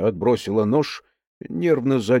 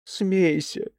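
flaring up; 5 semitones higher than usual. Acted. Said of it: "Светка вспылила".

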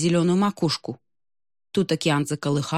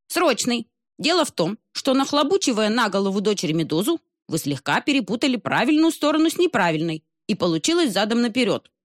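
old albatross, lightly voiced; 5 semitones higher than usual.

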